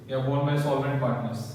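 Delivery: slow, word-by-word dictation. Shown as a demonstration. Teacher dictates the phrase to students, slowly. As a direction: spell it out slowly for copying. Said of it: "ऐसे लिख दो".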